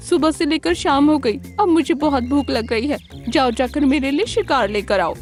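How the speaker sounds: high fox voice giving orders; bossy clever fox. Acted. Hungry fox orders crane to hunt, high bossy fox voice. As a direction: order your servant off in a high voice.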